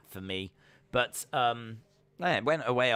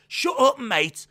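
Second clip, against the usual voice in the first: very loud, high-pitched Brummie impression; hammed-up shouted attempt, lacking depth; loud Birmingham mock command, falling at the end; Pete Dunne; 11 dB louder, slower than usual. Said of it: "You have to put a bit more, like, depth".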